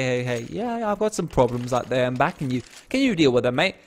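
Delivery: mock Danish accent, fairly quiet; casual phone call in a put-on Danish accent. Player rings Frostlass for help, in a put-on accent. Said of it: "I don't know why I'm doing that accent".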